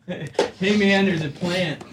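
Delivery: lightly voiced laid-back stoner; a hint of a mellow hippie drawl; classic-rock album ad voice. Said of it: "I used the classic-rock album ad voice".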